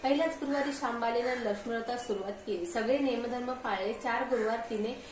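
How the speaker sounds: lightly sing-song vrat katha narration; understated storyteller's recitation of a vrat katha; devotional story reading. Acted. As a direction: read the old folk tale aloud, line by line. Reads a vrat story aloud.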